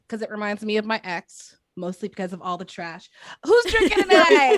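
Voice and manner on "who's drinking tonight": loud, high shout to the room; rowdy crowd call. Real, not acted. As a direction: holler it out to fire up the audience. Comic calls out to the crowd.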